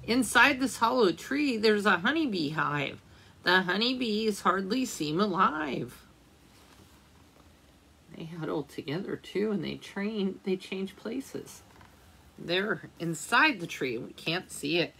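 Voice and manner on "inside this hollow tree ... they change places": gentle storybook reading aloud; reading to children. A narrator's reading. Teacher reading a winter book to children, gentle storytelling. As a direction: read it like a picture book for little ones.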